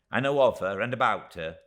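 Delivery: high, loud little-woman voice; a small dwarf woman pleading her case, pitched high; tiny Miss Moucher. Acted. Miss Moucher to David, defending her lot in a high voice.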